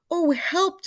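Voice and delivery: very high, loud cry for help; scream. A narrator's reading. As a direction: shriek for help. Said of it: "screamed Missus Twit".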